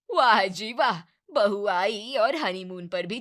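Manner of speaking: loud mocking "well well well"; sarcastic taunt. Neighbour mocks the host over the honeymoon, loud sarcastic jeer. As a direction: jeer at her, loudly.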